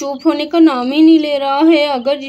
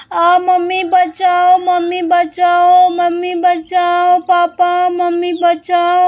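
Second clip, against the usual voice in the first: crying for help; 4 semitones higher, 4 dB louder, slower than usual. Acted. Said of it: "बहुत ही ज़ोर ज़ोर से चिल्लाने".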